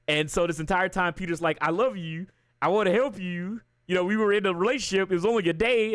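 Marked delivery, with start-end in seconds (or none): 1.6-5.9 higher-pitched, mock lovelorn plea; imitated pleading. Retelling Peter begging MJ back, imitated pleading. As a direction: plead like a jilted boyfriend, playfully.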